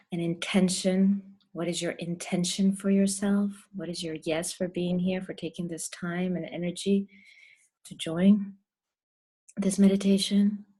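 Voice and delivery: measured meditation voice with long pauses; guided meditation. Real, not acted. Guide leads the group through breath and intention, guided meditation. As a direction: stretch the key words, leave room to breathe.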